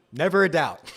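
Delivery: laughing through the words; gleeful laugh on the line. Real, not acted. Streamer laughing off his excitement to chat, laughing. Laughing after celebrating the pick.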